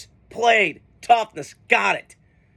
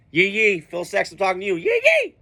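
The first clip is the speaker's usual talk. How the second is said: fake Southern accent. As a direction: lightly ham a Southern good-ol'-boy accent. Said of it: "trying to fake that Southern accent".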